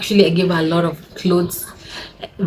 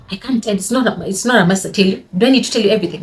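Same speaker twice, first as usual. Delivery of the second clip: retold sassy, defiant retort; mock moody back-talk; attitude; 3 semitones higher, faster than usual. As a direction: imitate someone answering back with attitude. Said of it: "with an attitude".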